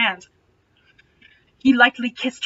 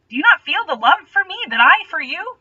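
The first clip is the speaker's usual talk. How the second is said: pleading lady voice; 7 semitones higher, 5 dB louder than usual. Acted. Starsberry pleading, voiced high.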